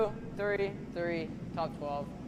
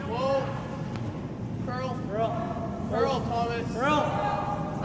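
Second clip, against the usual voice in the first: calling out; 5 semitones higher, much slower than usual. Real, not acted. Skip calling sweepers on shot.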